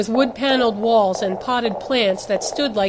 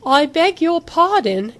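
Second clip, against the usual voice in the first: slow, high, louder affronted retort; haughty indignation; 7 semitones higher, 5 dB louder, slower than usual. A narrator's reading. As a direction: take offence, drawing the words out. Affronted at threat of refusal.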